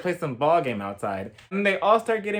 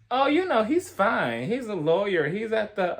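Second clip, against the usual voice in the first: higher, lightly put-on voice of Erica; imitating Erica; 5 semitones higher than usual. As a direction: play Erica breezily brushing off the question. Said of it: "And Erica responds".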